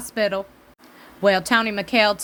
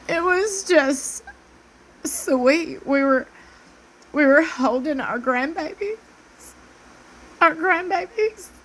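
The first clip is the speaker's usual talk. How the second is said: higher, slowed, syrupy mock of Robin's sweet tone; 6 semitones higher than usual. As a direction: parody her sugary confessional voice. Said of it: "she said".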